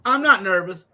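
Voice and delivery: put-on high, loud little-kid protest; young girl imitation. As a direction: imitate a small niece insisting to her uncle. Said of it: "she's like".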